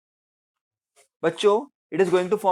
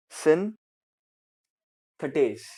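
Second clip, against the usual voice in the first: slow dictation; much slower than usual. Shown as a demonstration. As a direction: draw synthetase out very slowly, syllable by syllable. Teacher drawing out term. (बहुत धीरे, खींचकर)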